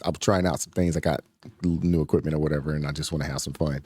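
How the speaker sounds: distorted megaphone sound. Real, not acted. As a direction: voice through a megaphone. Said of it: "forgive the, uh, megaphone voice".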